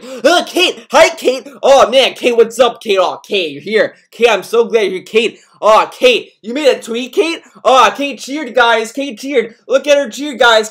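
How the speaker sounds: loud, high, gushing fan chatter; mimicking excited chat. Streamer mocking his chat fawning over Kate, loud and high. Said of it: "his whole chat is like".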